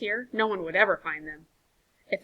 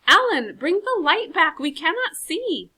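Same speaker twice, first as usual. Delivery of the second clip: much louder, higher, pleading yells; urgent shouting; 8 semitones higher, 9 dB louder than usual. Acted. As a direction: yell for him to come back. Calling into darkness for light.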